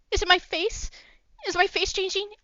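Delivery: high, loud worried questions; panicked. Acted. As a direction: Hoshi panicking to Haru about his face, high and loud. Hoshi panics about his face.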